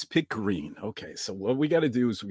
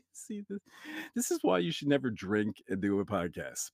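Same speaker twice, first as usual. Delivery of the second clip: ordinary talk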